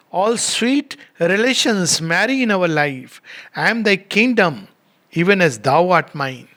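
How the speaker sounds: measured, lingering verse reading; poem recitation. Acted. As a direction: read it as sacred verse, unhurried. Reads poem aloud.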